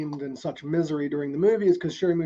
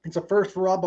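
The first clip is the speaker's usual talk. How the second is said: talking while chewing oatmeal; words around a mouthful; mouth full; 2 semitones higher than usual. Real, not acted. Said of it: "I'm chewing on oatmeal".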